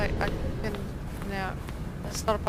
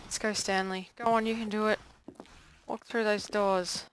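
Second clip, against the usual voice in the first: put-on creepy old man voice. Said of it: "Creepy old man voice".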